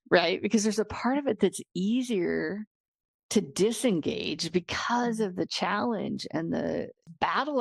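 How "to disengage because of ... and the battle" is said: hoarse, failing voice; losing voice. Real, not acted. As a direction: voice dropping to a whisper. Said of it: "I'm losing my voice".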